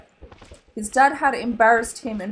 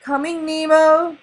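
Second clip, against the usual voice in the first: urgent call; 6 semitones higher, 7 dB louder than usual. A narrator's reading. Father rushing to son.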